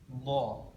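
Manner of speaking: "Do" with the tongue lifted, heavy. Shown as a demonstration. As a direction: lift the tongue to the palate on "Do". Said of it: "lidahnya terangkat ke atas".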